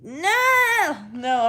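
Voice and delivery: high squeal of disgust, laughing. Real, not acted. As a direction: shriek no through laughter.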